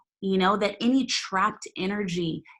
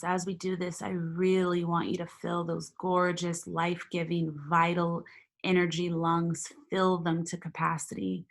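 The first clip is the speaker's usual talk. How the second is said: guided meditation. Acted. Leads a meditation.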